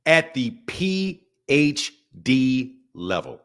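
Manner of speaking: low, slow, grandly drawn-out voice; pompous boast. Pretend. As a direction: savour each letter like a title. Boasting of his reading level.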